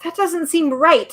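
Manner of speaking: high, slow and helpless; lost for words, pleading. Acted. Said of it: "said Milo helplessly".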